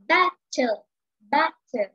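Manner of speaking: "battle" with the first syllable "BAT" stressed, "tle" light; trochee stress. Shown as a demonstration. Teacher showing the first word's stress: trochee. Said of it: "a stressed syllable comes first".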